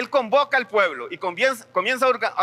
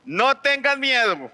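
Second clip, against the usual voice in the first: slow, raised commanding voice of God; voice of the Lord; 5 semitones higher, slower than usual. Retold or imitated. The Lord sending a young prophet, slow commanding voice. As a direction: proclaim it slowly as the Lord commanding. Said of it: "Pero el Señor me dijo".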